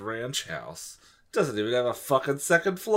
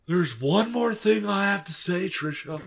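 tag; 7 semitones higher than usual. Acted. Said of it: "Steven said softly".

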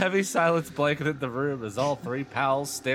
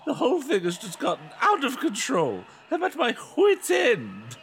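high, loud laughing mom at wit's end; mother losing it; hammed-up frazzled mom; exasperated mother; 12 semitones higher, 6 dB louder than usual. Mother voiced in story.

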